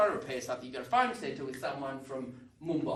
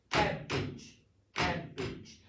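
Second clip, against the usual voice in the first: Cabbage with the first syllable hit hard; teacher modelling stress, CAB strong and bage weak; much slower than usual. Shown as a demonstration. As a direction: punch CAB in Cabbage, let bage fall away. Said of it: "I'm a maniac for s-, stress".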